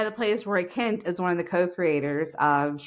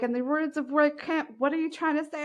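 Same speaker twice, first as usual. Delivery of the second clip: imitating children; 8 semitones higher than usual. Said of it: "they're like".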